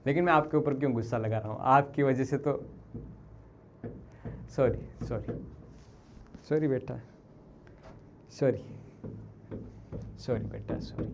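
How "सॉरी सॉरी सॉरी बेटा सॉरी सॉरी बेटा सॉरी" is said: soft, low repeated sorries; hushed, subdued apology; apologetic. Real, not acted. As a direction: apologise gently, with pauses between. Repeated apology after his outburst.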